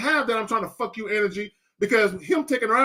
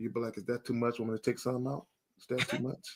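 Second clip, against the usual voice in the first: very soft, very low, very quiet intimate whisper; 11 semitones lower, 14 dB quieter than usual. Showing a caller how he whispers to a woman, whispering. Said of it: "So so I'm whispering to her".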